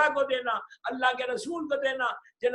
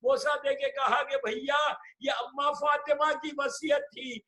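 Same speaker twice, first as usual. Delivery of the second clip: impassioned lament preaching; 2 semitones higher than usual. Acted. Preacher wails the farewell to the mourners, full-voiced lament.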